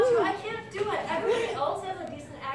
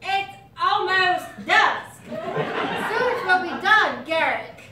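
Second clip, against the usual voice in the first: put-on British accent; 2 semitones higher, 4 dB louder, slower than usual. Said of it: "do it again with a British accent".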